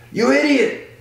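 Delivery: very high mock-outraged cry; imitated scolding. Max seeing the water they bought, mock scolding.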